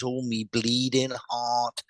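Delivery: slow, drawn-out Cockney exclamation; lightly put-on Cockney, slow; imitated Cockney. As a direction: stretch it out in rough Cockney. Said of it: "a Cockney accent, but he's, he's saying".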